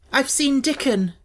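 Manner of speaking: high, slow eager news; excited. A narrator's reading. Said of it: "Mary repeats her news".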